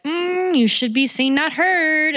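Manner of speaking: a stern patriarch lecturing women, voice jumping high; lightly hammed-up disapproving old-fashioned man; mocking patriarch. Speaker mocks the patriarch scolding women, high and mocking. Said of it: "the patriarch's all like".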